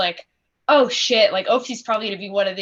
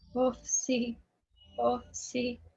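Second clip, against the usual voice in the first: quiet voice, much higher and quieter; 2 semitones higher, 13 dB quieter than usual. Narrating a game scene, voicing a character who quietly calls a name; quiet voice. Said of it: "he can just hear quietly".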